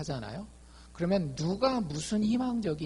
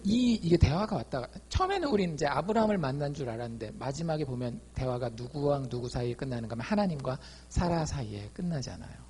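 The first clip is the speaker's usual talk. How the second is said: normal talking voice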